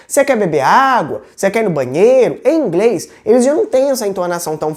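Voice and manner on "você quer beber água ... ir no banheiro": "Você quer beber água?" with a marked question tune; emphatic Portuguese question contour on "beber água" and "no banheiro"; strong question intonation. Shown as a demonstration. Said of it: "como uma entonação forte".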